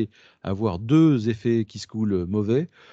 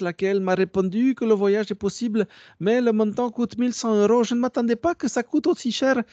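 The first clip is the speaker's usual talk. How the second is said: high-pitched put-on Russian accent; 11 semitones higher than usual. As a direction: read it as a pleading Russian scammer, way up high. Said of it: "c'est avec l'accent russe". (faux accent russe, voix haut perchée)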